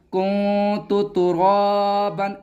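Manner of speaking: कुंतु with the noon hidden nasally, slow; slow hidden-noon reading; slow nasal ikhfa. Shown as a demonstration. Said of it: "अब ये पढ़ा जाएगा".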